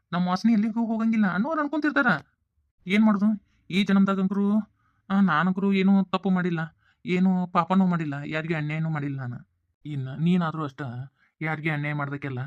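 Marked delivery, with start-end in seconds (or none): 0.1-9.5 loud bitter protest. Acted. Father to his wife, loud bitter protest of innocence. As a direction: cry out that he did nothing wrong.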